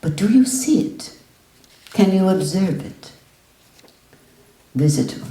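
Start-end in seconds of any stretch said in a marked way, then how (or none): 0.0-3.1 pressing teacher. Retold or imitated. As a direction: push him further.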